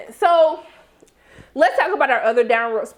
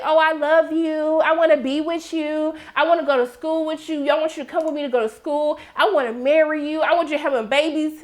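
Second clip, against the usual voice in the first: mock lovesick; 3 semitones higher than usual. Character mocking another's love talk, mock lovesick. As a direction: gush it in a mildly mocking drone. Mocking retelling of lovey-dovey pleading.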